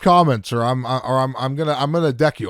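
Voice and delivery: joking low-voiced threat; mock threat. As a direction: play at being fed up, voice dropped. Playfully voicing a fed-up threat.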